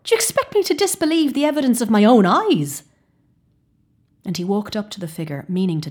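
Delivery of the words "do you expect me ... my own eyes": loud, high indignant challenge; scornful. Acted. Hartford challenging the companion, loud and scornful. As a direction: dare him to doubt you. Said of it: "scoffed Hartford".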